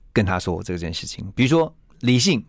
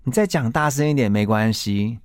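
slow, leisurely, mildly teasing calm; a hint of cool composure; calm and gentle. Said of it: "悠悠的说一句".

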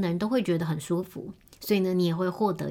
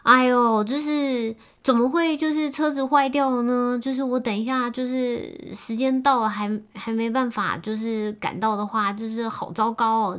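put-on whiny girlfriend; 6 semitones higher, 4 dB louder than usual. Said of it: "然后女生就说".

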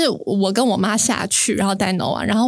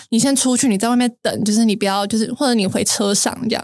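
impatient. Retold or imitated. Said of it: "我就有点不耐烦".

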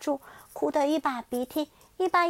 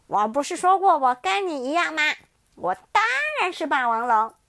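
loud, higher, smug T-rex; smug tyrannosaurus; 4 semitones higher, 6 dB louder than usual. Acted. T-rex telling Xiaoliang they're alike, loud and smug. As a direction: state it as obvious.

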